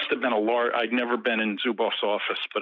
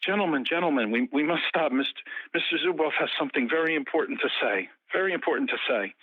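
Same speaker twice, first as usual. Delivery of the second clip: lightly voiced urgent translator, pitched higher; Vadim; 5 semitones higher than usual. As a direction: imitate an interpreter cutting into an argument. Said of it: "And his translator, Vadim, says".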